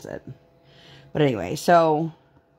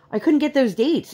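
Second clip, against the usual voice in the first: friend's complaint; 9 semitones higher than usual. Retold or imitated. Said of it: "and she's like".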